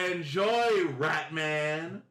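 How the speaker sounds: mocking farewell. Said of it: "they say".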